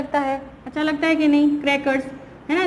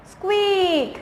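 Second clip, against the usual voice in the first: drawn-out, higher "स्क्वीक"; higher-pitched squeak word; shoe squeak imitation; 4 semitones higher, slower than usual. Shown as a demonstration. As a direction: stretch the vowel like a squeaking shoe. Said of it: "कैसा होता है?".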